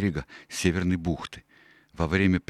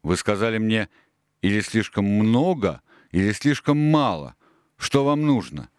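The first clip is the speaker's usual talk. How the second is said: agitated; 4 semitones higher, 4 dB louder than usual. Acted. Silver baffled, agitated.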